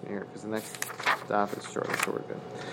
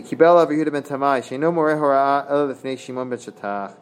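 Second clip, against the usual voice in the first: higher-pitched Talmud reading; lilting study-hall recitation; Talmud text recitation; 4 semitones higher, 3 dB louder than usual. Acted. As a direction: read the Hebrew text aloud, pitched up. Reads the Hebrew text aloud.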